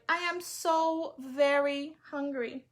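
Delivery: slow high hungry plea; pleading boy. Acted. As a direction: drag it out, begging for food. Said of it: "said the boy".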